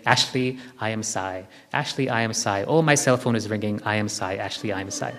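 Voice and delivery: offhand, throwaway repetition aimed at a person; casual wrong way. Shown as a demonstration. Teacher mocks the wrong way to say the mantra, casual and offhand. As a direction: rattle it off like small talk to a neighbour. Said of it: "That's not what we're saying".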